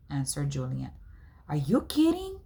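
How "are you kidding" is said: breathless whisper of disbelief. Acted. Boy stunned by friend's remark, whispered disbelief. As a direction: hiss it in shock.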